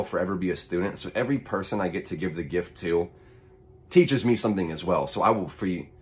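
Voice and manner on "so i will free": too much caffeine. Real, not acted. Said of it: "so caffeinated right now".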